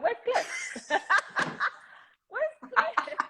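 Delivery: high-pitched, squealed through laughter; playful high wail breaking into giggles; retold mock call. Retold cry amid laughter.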